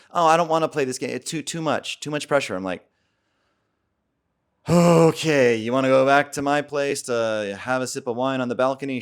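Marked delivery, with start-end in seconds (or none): 0.1-2.5 high, hurried protest of a date; imitated reluctant date. Voicing date refusing to play. 4.7-9.0 retold giving up.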